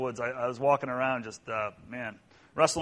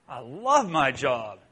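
lightly voiced flagger; 3 dB louder, much slower than usual. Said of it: "She goes".

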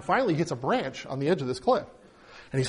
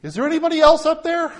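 high, louder desperate call; panicked plea; 10 semitones higher, 5 dB louder than usual. A narrator's reading. Hanging man calling up to the sky in high panic. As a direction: call up high, hoping for another answer.

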